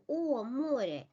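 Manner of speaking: "море" as MO-rye, stress on the first syllable; "о, море" with a held O. Shown as a demonstration. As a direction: give the "о" in "море" its full round sound. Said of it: "In stress position".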